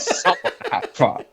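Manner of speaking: slow, high mock American voice; amused imitation of a fake American accent; put-on American accent. Podcaster quoting the villain's wink to camera, slow fake American accent. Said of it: "a German villain doing an American accent".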